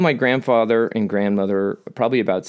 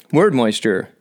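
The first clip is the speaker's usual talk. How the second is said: "Word moisture" announced a touch louder like a brand; mock product name; 4 dB louder, slower than usual. Joking to viewers about crying, pitching "Word moisture" like an ad. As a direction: present "Word moisture" as if it were a sponsor. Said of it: "not a sponsor".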